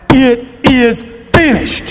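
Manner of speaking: measured, preacherly imitation of crying out. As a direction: retell a final cry, each word drawn out. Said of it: "he cried out".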